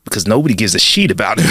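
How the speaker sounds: lightly put-on deep South bartender; deadpan punchline with a deep South twang; a hint of deep South accent. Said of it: "deep South accent".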